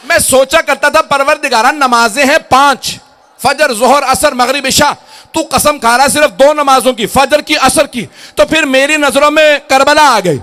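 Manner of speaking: high, loud, driving sermon climax; impassioned pulpit cry building to a shout; full-force preaching. Acted. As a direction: preach it ringing, stretching the final phrases.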